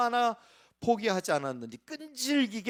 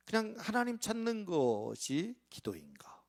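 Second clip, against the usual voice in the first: whispered question, breath only; 4 semitones higher, 6 dB quieter than usual. Acted. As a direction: drop to a whisper. (속삭이듯 묻기)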